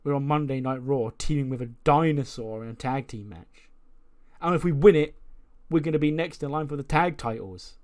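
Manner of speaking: building up, can't believe our luck; excited tag partner. Retold or imitated. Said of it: "he goes".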